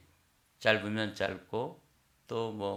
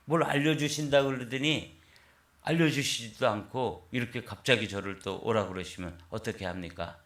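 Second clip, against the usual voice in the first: louder, indignant protest; mild mock outrage; retold angry complaint; 3 semitones higher, 5 dB louder than usual. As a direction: accuse God of breaking a promise, half acted. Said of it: "또 막 화를 냈다는 거예요".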